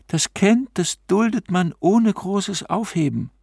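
a lightly voiced lady, rising in desperation; desperate noblewoman. Amalia desperately insists no one would let them wed, rising plea.

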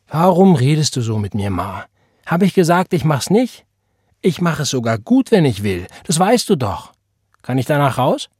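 a lightly voiced teenager defending himself; aggrieved son. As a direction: complain to Ma, wounded. Roy protests to his mother.

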